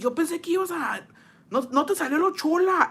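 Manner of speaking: high-pitched mock teasing quote; imitated teasing. Imitates Jacobo teasing stepmom.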